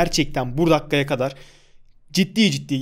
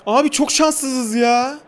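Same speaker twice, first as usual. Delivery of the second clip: dejected; 9 semitones higher, much slower than usual. Real, not acted. After hitting the post.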